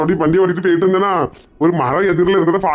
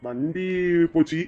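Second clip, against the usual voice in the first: scared near-whisper; 3 semitones lower, 8 dB quieter, slower than usual. Acted. Husband whispering the bad news.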